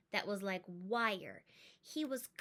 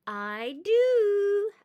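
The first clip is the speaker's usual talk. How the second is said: higher and much louder, stubborn; loud stubborn child's insistence; insisting; 9 semitones higher, 12 dB louder than usual. Acted. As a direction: dig in and insist. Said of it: "I insisted".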